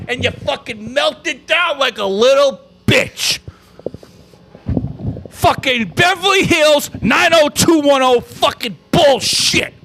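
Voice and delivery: slow, emphatic angry rant; pissed off. Real, not acted. Fan blames the star for melting down, pissed off. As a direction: chew out each word in disgust. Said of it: "I'm fucking pissed".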